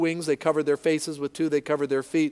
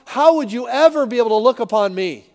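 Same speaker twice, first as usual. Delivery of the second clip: humble confession; 3 dB louder than usual. Pretend. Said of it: "drives you to your face and say".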